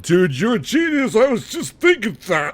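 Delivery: very high, squeezed-up excited voice; hammed-up excited fan. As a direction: gush in a silly high put-on voice. Imagined viewer excitedly stealing the idea.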